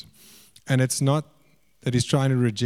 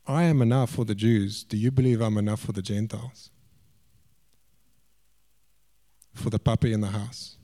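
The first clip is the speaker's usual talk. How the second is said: lower, gentle retold question; tender; 4 semitones lower than usual. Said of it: "He's actually being tender".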